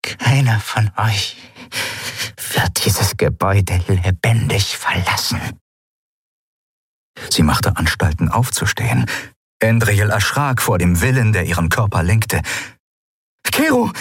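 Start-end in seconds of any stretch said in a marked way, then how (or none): 0.0-5.4 strained threat. A narrator's reading. Dying pirate threatens them. 13.4-13.9 high sharp call of his name; alarmed call. A narrator's reading. Calling him in alarm.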